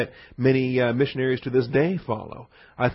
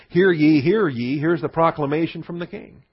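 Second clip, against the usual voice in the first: town crier; 2 semitones higher than usual. Pretend. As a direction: ring out "Hear ye" like a crier in the square. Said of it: "stand in the town square and say".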